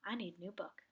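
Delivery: lightly drawled Southern "I need a new book"; a hint of a Southern accent on "I need a new book"; casual Southern twang. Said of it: "I don't know what this southern accent is coming out".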